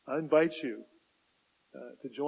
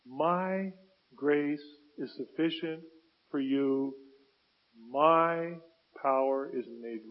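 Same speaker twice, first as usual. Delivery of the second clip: God gently answering. Acted. Voicing God's reply to Paul.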